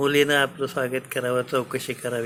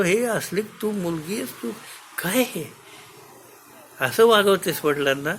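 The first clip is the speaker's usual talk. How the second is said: furious king; 5 semitones higher than usual. Acted. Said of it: "फाडफाड संतापतो".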